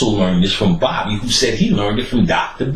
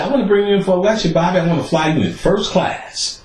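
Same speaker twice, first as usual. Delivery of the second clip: lady caller; 8 semitones higher than usual. Retold or imitated. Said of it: "She calls him and said".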